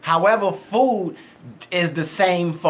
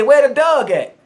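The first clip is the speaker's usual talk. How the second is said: put-on Baltimore accent; 4 semitones higher, 4 dB louder than usual. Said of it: "I say".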